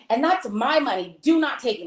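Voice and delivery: firm warning, slightly high; retold going off. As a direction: act out telling them off. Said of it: "I'm, like, going off".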